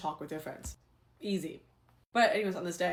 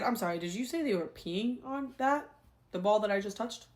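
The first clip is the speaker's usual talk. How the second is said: incredulous question; 4 semitones higher than usual. Retold or imitated. Retold disbelief at pee on ball.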